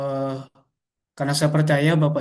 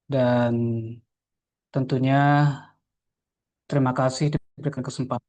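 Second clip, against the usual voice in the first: radio breaking up; 2 semitones lower than usual. Real, not acted. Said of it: "suaranya hilang Bapak".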